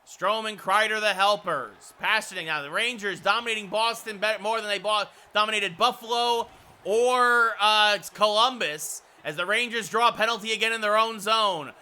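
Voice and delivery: lively hockey commentary with drawn-out key words; play-by-play. Real, not acted. Announcer sums up the Rangers dominating Boston, lively commentary. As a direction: recap the game like a TV announcer.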